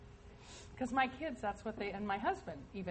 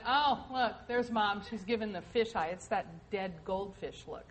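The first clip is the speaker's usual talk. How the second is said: laughing retold kids. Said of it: "They said".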